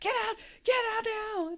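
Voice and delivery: tiny high squawk down the phone line; mock urgent squeal from a receiver; Brenda. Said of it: "the whole time Brenda's like".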